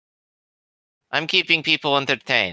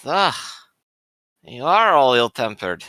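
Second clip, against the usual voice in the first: character voice. Acted.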